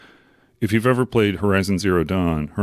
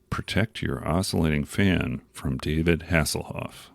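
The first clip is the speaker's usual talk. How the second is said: deliberate tagline repeat; 3 semitones lower, 4 dB quieter than usual. Retold or imitated. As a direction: let each phrase of the slogan land, ending on "David Hasselhoff". Tagline repeated for comic effect.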